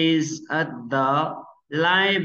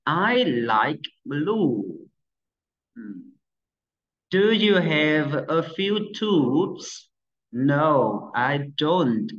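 clear, even dialogue read for pupils; classroom reading. Acted. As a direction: read both parts aloud for the class.

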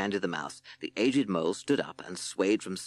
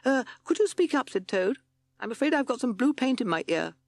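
much higher, fussy toad voice; a deaf little toad asking people to speak up; 3 dB louder than usual. Acted. Toad character voice.

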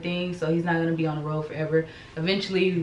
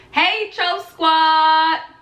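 put-on baby voice; 10 semitones higher, 5 dB louder, much slower than usual. Speaking for baby.

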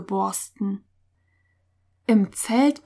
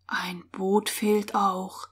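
soft, very slow, stunned; hushed, drained murmur; almost toneless; 8 dB quieter, slower than usual. A narrator's reading. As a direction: let it slip out with hardly any voice. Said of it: "Beinahe tonlos kam es".

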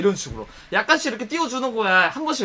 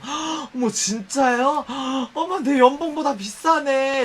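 gasping, fawning wow; mock amazement; 3 semitones higher, much slower than usual. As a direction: gasp like it's a treasure, slow on the last line. Staff feigning amazement at watch.

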